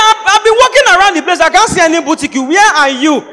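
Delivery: high-pitched, frustrated searcher; mock exasperation. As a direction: complain like a friend who can't find the place. Acted friend unable to find place.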